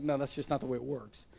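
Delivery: soft, low mock protest; mock objection. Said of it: "We're like".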